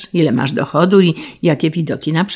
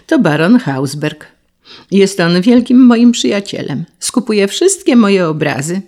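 plain reading voice

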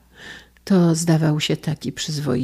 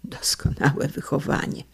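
muttered aside; 6 dB quieter than usual. Acted. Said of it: "bąknął mąż".

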